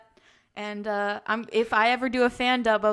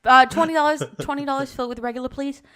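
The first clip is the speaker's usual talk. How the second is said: Jersey accent; 8 semitones higher, 8 dB louder than usual. Shown as a demonstration. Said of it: "I don't know a lot of Jersey".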